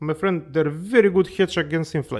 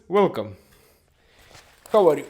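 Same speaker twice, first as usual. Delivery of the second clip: normal talking voice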